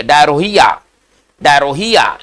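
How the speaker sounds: डायरोहिया with every letter sounded, rho included; spelling pronunciation. Shown as a demonstration. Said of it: "Hindi में पढ़ते हैं डायरिया".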